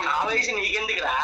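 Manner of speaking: a real shouted retort in an argument; heated shout at the YouTuber; angry shout. Real, not acted. Heated phone quarrel over age.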